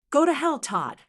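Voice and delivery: a daughter's cold fury, said loud; defiant. Acted. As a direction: daughter telling the scammer off, loud and angry. Daughter defies the con man.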